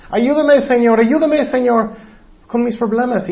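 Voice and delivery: high-pitched mock plea for help; imitated crying plea. Preacher imitates weepers at the altar begging God, mock plea. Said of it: "están llorando, llorando, llorando".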